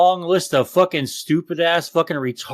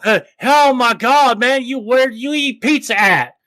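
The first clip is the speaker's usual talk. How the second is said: higher and louder, hammed-up horrified gasp; mock outraged conspiracist; 7 semitones higher, 3 dB louder than usual. Mocking shirt viewers, a hammed-up panicked higher voice. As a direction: play a frantic conspiracy nut seeing a shirt. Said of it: "They see pet O".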